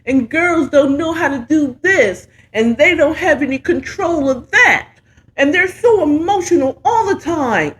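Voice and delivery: mock men's voice, rising and laughing; mocking the hosts. Mocking the show's hosts to the brothers, laughing, rising. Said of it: "that whole show is y'all sitting up is like".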